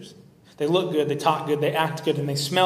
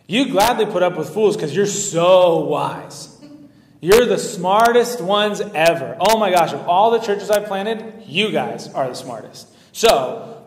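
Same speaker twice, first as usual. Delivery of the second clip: mock flattering Paul; 2 semitones higher, 6 dB louder than usual. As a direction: lay the flattery on thick. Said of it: "I have to say it as, as you would".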